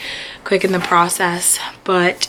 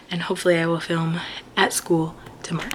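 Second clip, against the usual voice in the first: whispering; 6 dB quieter, faster than usual. Real, not acted. Resting her strained voice.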